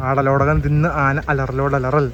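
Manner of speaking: slow careful tongue twister recital. Shown as a demonstration. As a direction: spell out each syllable of ആടലോടകം തിന്ന് ആന അലറലോടലറൽ slowly and clearly. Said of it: "അപ്പോ പറയൂ". (പതുക്കെ വ്യക്തമായി നാക്കുളുക്കി ചൊല്ലുന്നു)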